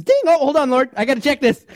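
high, loud hurried interruption; hold on Lord. Pretend. Worshipper cutting off prayer for a ding, hurried. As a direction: break off mid-prayer, eager to check.

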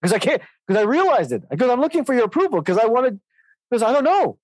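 voicing his son. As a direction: play the son owning up, a bit flustered. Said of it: "He said".

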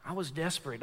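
hushed, heavy confession. Acted. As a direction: drop low and soft, almost breathed. Quiet repeated confession.

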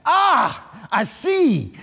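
sudden high cry of understanding; chief's delighted exclamation. Retold or imitated. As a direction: exclaim it like the chief just caught on. Chief reacts with sudden laughter.

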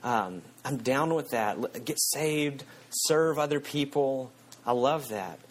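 warm fuzzy mock. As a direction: coo it like a cozy believer. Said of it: "with this kind of warm fuzzy of like".

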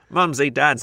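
prim British. Acted. Speaker sends up prim and proper speech, prim British.

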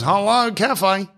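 high, slow, drawn-out cafe answer; phone greeting. Acted. Cafe boss answering the phone, drawn-out high greeting. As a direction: sing out a put-on telephone hello.

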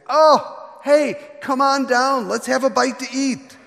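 high, loud, friendly shout up into the tree; Jesus calling up to Zacchaeus, loud and joyful; cheerful call. Acted. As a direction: hail him like an old pal, bright and eager.

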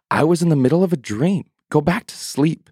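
high, quick, sleepy brush-off; drowsy priest. Acted. Eli sending Samuel back to bed, sleepy and quick. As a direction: hurry the boy back to bed.

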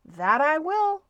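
high, loud answering shout. A narrator's reading. Stuart answering his friend from the deck, shouting. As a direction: shout it back high and hearty. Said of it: "shouted Stuart".

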